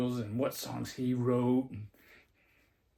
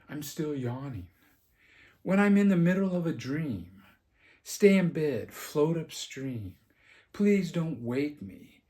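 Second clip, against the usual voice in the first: lyric recitation; 4 dB louder than usual. Acted. Vlogger reciting song lyrics to viewers, measured verse reading. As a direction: recite it like verse, pausing after each line.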